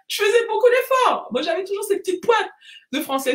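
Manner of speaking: high-pitched, laughing at herself; amused. Real, not acted. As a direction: keep talking through the tail of a laugh. Laughing at her own accent attempt.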